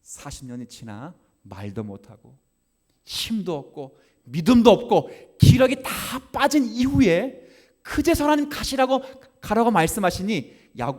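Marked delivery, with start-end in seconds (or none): 3.1-10.9 high, loud sung-out preaching over music; fiery preaching. Acted. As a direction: preach it out, building fervor. Preaching climax.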